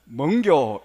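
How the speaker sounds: loud, terse Gyeongsang question; Gyeongsang dialect. Shown as a demonstration. Teacher compressing a polite question, loud blunt Gyeongsang accent. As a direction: punch out the compressed Gyeongsang version. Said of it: "이 경상도 버전은".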